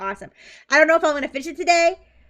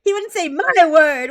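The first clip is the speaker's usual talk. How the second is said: 1 loud; 5 semitones higher, 9 dB louder than usual. Real, not acted. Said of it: "he's not British".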